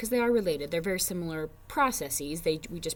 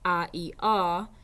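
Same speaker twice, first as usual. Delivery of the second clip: put-on teacher to child. Shown as a demonstration. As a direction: coach a small child through the vowels. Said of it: "say the word once and have them".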